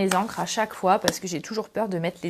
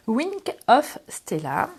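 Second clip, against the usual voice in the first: slow English name in a French accent; much slower than usual. Real, not acted. Crafter apologizing to viewers for her English, French accent. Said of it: "ne vous moquez pas de mon accent anglais".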